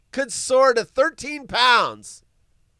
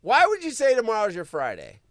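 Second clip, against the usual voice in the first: usual speaking voice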